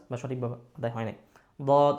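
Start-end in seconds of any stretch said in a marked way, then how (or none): 1.6-1.9 "দদ" brief, made with the tongue tip; wrong Dad, tongue tip. Shown as a demonstration. Teacher repeating the mistake, "দদ" with tongue tip raised. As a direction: tap the palate with the tip on "দদ". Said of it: "হবে না".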